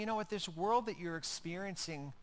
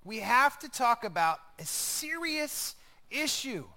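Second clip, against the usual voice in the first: a touch of an urgent, louder apostle; intense Paul; 4 semitones higher, 5 dB louder than usual. Retold or imitated. Paul warning the Galatians: intense, urgent plea. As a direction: press the warning home. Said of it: "Paul is very focused, he's very intense".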